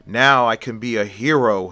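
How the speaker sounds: proud would-be hero, a touch of excitement; excited. Acted. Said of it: "with excitement in his voice".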